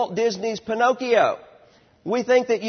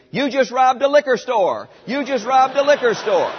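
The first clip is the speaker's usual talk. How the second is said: mock scream; 3 semitones higher than usual. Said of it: "is going to be screaming".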